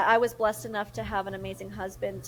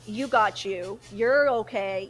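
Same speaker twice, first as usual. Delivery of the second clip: self pep talk; 5 dB louder than usual. Retold or imitated. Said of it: "I should have been saying that to myself".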